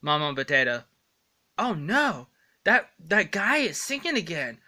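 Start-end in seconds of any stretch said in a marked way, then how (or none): 1.6-4.6 mock listener. Another voice reacting to singing.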